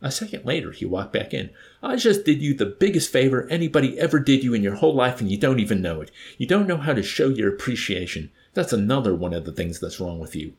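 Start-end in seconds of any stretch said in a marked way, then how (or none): 1.8-10.5 loud, aggrieved scolding; he thinks he's owed thanks, let him have it; berating. Acted. Wickham scolding the ungrateful chaplain, loud and aggrieved.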